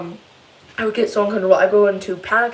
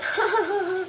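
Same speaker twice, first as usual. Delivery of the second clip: witchy laugh; 11 semitones higher, 6 dB quieter than usual. Retold or imitated. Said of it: "started laughing in the frickin' witchiest way".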